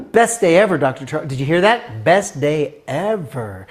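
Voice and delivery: retold gushing to the boss; overexcited. New teacher gushing to the principal, overexcited.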